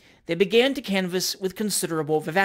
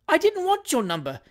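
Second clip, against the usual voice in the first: high-pitched astonished protest; 9 semitones higher than usual. A narrator's reading. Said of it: "said the astonished Mister Pickwick".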